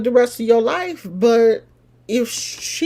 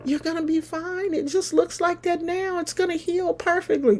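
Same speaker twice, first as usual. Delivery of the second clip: reassuring doctor; 8 semitones higher, 6 dB quieter than usual. Retold or imitated. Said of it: "And he was like".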